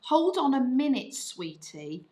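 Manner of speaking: mock-kind parental put-off; kind-but-not-really. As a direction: brush the child off with a token endearment. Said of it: "It's kind of kind, but it isn't really".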